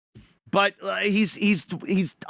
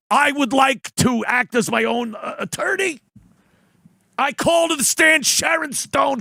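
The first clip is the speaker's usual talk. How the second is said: mock lawyer voice; 5 semitones higher than usual. Mocking John as his own lawyer.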